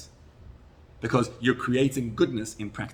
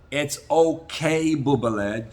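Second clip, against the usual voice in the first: put-on tender to a child; 5 dB louder, slower than usual. Shown as a demonstration. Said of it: "Just like you talk to your child".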